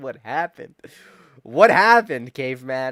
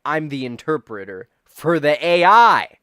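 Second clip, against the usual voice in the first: mock reassuring doctor; 9 dB louder than usual. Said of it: "he's gonna be like".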